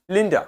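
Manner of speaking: लिंडा clipped to a quick "lin-duh"; लिंडा with a reduced schwa ending; light final vowel. Shown as a demonstration. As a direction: keep the end of लिंडा short and unstressed. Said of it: "तो हल्का pronounce किया".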